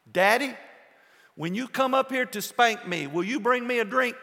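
put-on little boy hollering. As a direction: call down like a cheeky kid. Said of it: "Little boy hollers".

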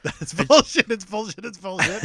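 mock whiny complaint, loud start; whiny yell. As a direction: whine it like a sulky man. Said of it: "Yelling in his whiny voice".

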